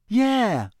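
high, breezy dismissal; carefree, falling "yeah"; airy. A narrator's reading. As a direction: brush the worry lightly aside. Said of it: "said Fred airily".

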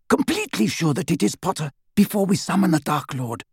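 high, cool and precise; cold clear voice. A narrator's reading. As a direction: warn him coldly about the Dark Lord. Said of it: "in her cold, clear voice".

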